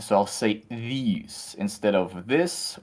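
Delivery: "these" said with a long ee where "this" should have a short i, a bit slow; mispronouncing this. Shown as a demonstration. Guest demonstrating her Russian vowel slip, "these" for "this", slowly. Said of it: "I will say an I sound instead of an E sound".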